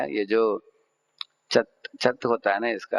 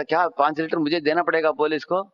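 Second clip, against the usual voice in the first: lightly acted disbelief, pitched higher; storyteller's higher-pitched, puzzled question; surprised question; 5 semitones higher than usual. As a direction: ask in mild astonishment. Acted offender astonished by offer.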